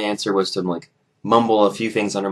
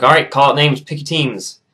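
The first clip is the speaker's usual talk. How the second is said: lightly voiced, higher brisk coach; coach giving orders; 5 semitones higher, 5 dB louder than usual. Coach telling students to pick teams, brisk orders. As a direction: call it out to a gym class.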